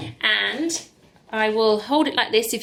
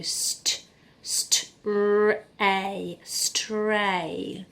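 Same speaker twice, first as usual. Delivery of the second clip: "stray" whispered, unvoiced; whispered sounding out; 3 dB quieter, much slower than usual. Shown as a demonstration. Teacher whispering the sounds of stray to pupils. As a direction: hush it like a secret. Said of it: "sounding out stray".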